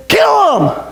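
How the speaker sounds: high, sudden bloodthirsty yell; mob shout. Acted. Jury answering the judge's question, mob shout. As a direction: yell it as a mock verdict.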